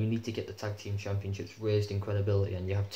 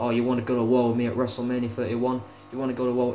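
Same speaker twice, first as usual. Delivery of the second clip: louder, mock challenge; Triple H; 3 semitones higher, 5 dB louder, faster than usual. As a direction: throw down a challenge, imitating a wrestler. Voices Triple H's retold challenge.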